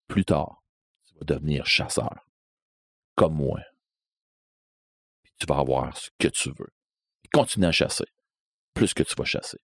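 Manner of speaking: low, hushed voice of the dark stranger; a low whispered stranger luring the boy; ominous stranger's voice. Retold or imitated. Mysterious stranger speaks to Sylvain.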